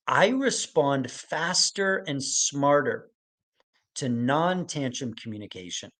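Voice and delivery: slow, deliberate read of the statement, each word laid out; slow dictation. Shown as a demonstration. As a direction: read it slowly so they can write it down. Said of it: "statement that I want you to write down".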